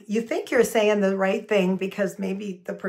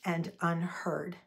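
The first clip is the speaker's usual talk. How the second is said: gentle declarative feeling statement; soft hurt I statement; 2 semitones lower, 5 dB quieter than usual. Shown as a demonstration. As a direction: speak the hurt softly, owning it.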